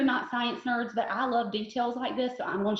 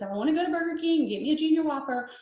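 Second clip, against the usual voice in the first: whiny joke voice; 4 semitones higher, faster than usual. Retold or imitated. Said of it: "that's the joke".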